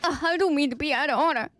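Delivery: sneering mimicry, fast; mocking repeat. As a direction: echo it back with contempt. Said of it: "What the fuck do you mean".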